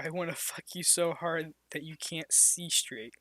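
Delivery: husky seductive whisper; sexy whisper. Acted. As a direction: breathe it out seductively. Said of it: "said in his deep, sexy voice".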